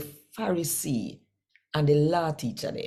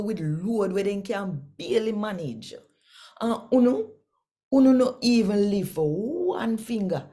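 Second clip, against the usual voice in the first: higher, fervent preaching voice as Jesus; raised, rebuking voice of Jesus; Jesus rebuking Pharisees; 3 semitones higher than usual. Acted. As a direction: scold them like a prophet warning. Jesus rebukes the law teachers.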